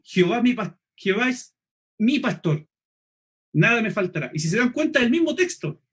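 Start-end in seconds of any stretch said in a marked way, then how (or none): 0.0-4.3 "mi pastor" set apart by pauses, with weight on MI; personal, stress on MI. Shown as a demonstration. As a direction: make "mi" personal, pausing before "mi pastor". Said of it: "de un Dios personal que está conmigo".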